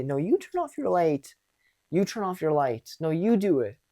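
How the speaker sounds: put-on squabbling like a kid; pushy argumentative. Shown as a demonstration. Supervisor bickering with coworker, petty back-and-forth. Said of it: "I didn't say".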